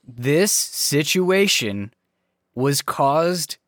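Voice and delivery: slow, measured blame; stern dressing-down. Acted. Acting out a telling-off for incompetence, slow and stern. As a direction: lay out the blame piece by piece.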